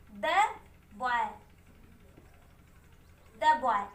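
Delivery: द बॉय drawn out slowly, short "duh"; slow the boy demo. Shown as a demonstration. Teacher repeating द बॉय slowly for students. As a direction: stretch द बॉय slowly for the class. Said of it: "देखिए कैसे".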